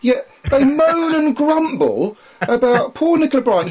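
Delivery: amused rant about accents; laughing. Real, not acted. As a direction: chuckle while defending her.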